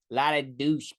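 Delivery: put-on brief stab at a Massachusetts accent; half-hearted Boston accent; attempted New England accent. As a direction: try a bad New England accent, then give up. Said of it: "New England accent for some reason".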